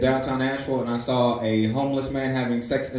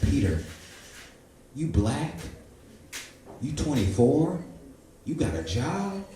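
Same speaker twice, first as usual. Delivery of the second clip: hushed self-talk; 3 semitones higher, 5 dB quieter, slower than usual. Retold or imitated. Quiet inner pep talk.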